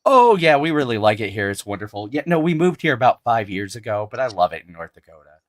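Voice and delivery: imitating an upbeat North Dakotan transplant, loud; game show character. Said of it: "the character went just like".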